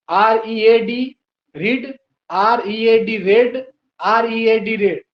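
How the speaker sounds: slow, letter by letter dictation; spelling out slowly. Shown as a demonstration. Teacher slowly spelling read for the class. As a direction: spell it slowly so they can write. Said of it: "spelling तीनों में सही".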